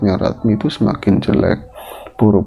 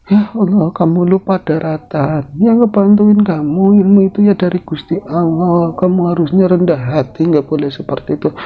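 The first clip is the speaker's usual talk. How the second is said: Nyi Suti admonishing; 9 semitones higher than usual. Acted. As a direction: lecture her to be humble.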